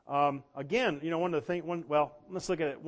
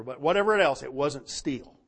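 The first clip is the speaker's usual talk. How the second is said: usual speaking voice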